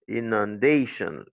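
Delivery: "inundation" as in-un-DAY-shun; weak U, strong DAY in "inundation"; stress on DAY. Shown as a demonstration. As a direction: lean on the "da" of "inundation". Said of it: "L'accent, c'est sur day".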